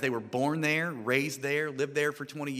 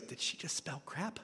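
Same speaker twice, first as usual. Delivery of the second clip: put-on kid laughing; 11 dB quieter than usual. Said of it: "this one kid goes".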